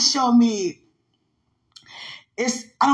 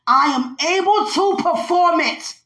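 voicing God; 7 semitones higher than usual. Relaying God's words to the listener, raised and proclaiming. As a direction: proclaim it as the voice from above. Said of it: "keep saying from God".

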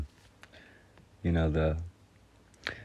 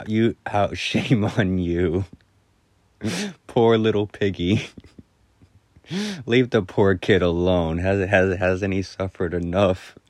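dry humor; 2 semitones higher, 5 dB louder than usual. Retold or imitated. Teacher shaming kids who laughed at a classmate, dry humor. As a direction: dryly scold as a joking teacher. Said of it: "in the driest sense of humor".

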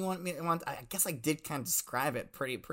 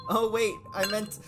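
laughing; 6 semitones higher, 7 dB louder than usual. Real, not acted. Flustered mistake, laughing.

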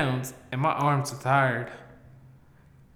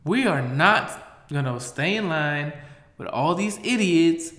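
defiant; 2 semitones higher than usual. Retold or imitated. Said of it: "I said".

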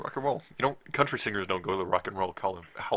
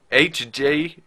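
drawn out; 5 semitones higher, 9 dB louder, much slower than usual. Pretend. Reading reviewer name.

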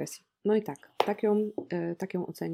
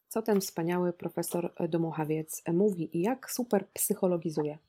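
ironic. Real, not acted. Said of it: "Czujecie już tę ironię w moim, moim głosie".

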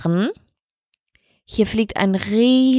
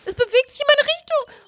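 hoch und laut vor Angst; panisch; 4 dB louder than usual. Real, not acted. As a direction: schrill vor Panik rufen, weil es näher kommt. Hornisse kommt auf sie zu. (sie ruft ängstlich, weil die Hornisse näher kommt)

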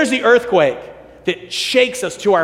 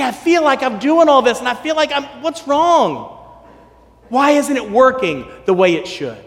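pleading lament; 5 semitones higher than usual. Retold or imitated. Elijah pouring out his soul to God, high anguished pleading.

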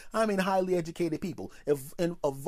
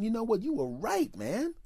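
excited admission; 8 semitones higher than usual. Retold or imitated. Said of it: "I'm thinking".

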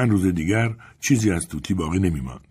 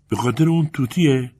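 put-on higher, curious child-like voice; lightly voiced little girl; 6 semitones higher, 3 dB louder than usual. A narrator's reading. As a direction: ask with a child's open concern. Little girl questions sad woman.

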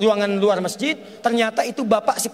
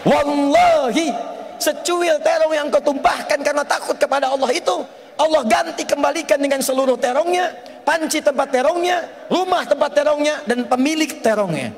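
emphatic repeat; 5 semitones higher than usual. Acted. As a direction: proclaim it the second time with force. Same answer repeated for emphasis. (diulang lebih keras dan tinggi, penuh penekanan)

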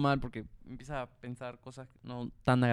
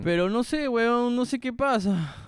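higher, louder, slow shout of confusion; real yelling; 9 semitones higher, 4 dB louder than usual. Real, not acted. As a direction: shout so the mic catches you. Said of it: "Tengo que gritar".

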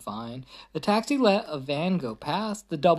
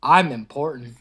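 louder, proud limousine voice; boastful limo; 5 dB louder than usual. Acted. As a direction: show off the mayor inside. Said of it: "yelled a limousine".

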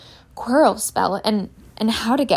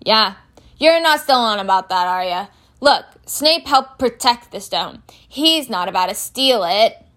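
loud, emphatic brush-off; insistent big-man character voice; groundskeeper Hagrid, dismissive; 2 semitones higher, 6 dB louder than usual. Acted. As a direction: set them straight firmly.

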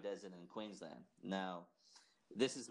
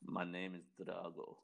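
Drago; 4 semitones lower than usual. Acted. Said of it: "the villain from Rocky".

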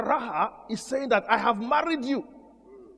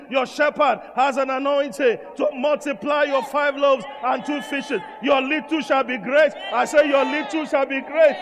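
full-force preaching. Real, not acted. Pastor preaching to his church about the shepherd, full force. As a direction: drive it home to the congregation.

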